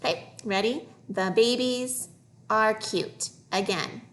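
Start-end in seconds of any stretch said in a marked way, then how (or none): 1.1-3.3 measured, phrase-by-phrase reading; careful reading model. Shown as a demonstration. Teacher modelling a phrase for young readers, careful. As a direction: read it in two clear chunks.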